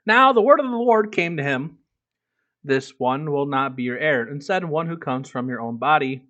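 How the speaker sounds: a lightly heightened Bible reading; scripture reading. Acted. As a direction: read the passage aloud like a lector, a bit above your chat voice. Reads scripture aloud to chat.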